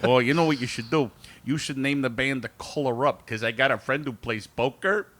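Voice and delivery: lightly voiced Chicago guy; Chicago accent. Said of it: "absolute spot-on impression of Brian".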